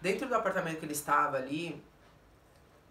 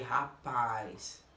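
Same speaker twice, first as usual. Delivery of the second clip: much lower, drawn-out single word; low "well, well" aside; incredulous reaction; 8 semitones lower than usual. Retold or imitated. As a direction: drop the voice in slow disbelief. Retold reaction of disbelief.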